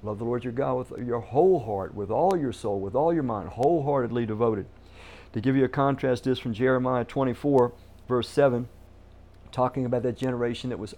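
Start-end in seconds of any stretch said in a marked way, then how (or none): 0.0-4.7 weight on "whole", each "all" and "wholeheartedly"; stress on whole, all, wholeheartedly. Real, not acted. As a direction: punch "whole" and each "all" in a driving list. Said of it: "Notice again the emphasis".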